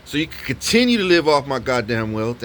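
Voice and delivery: imitating an escalating rant at the tenant; going hard on her. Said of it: "And I'm going hard on her".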